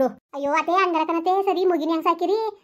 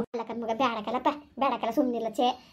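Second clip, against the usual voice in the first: softer, lower hurt plea; soft pleading; 3 semitones lower, 6 dB quieter than usual. Acted. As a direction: quietly beg him not to. Pleading not to abandon baby. (ಮೆಲುದನಿಯಲ್ಲಿ ಬೇಡಿಕೊಳ್ಳುವುದು)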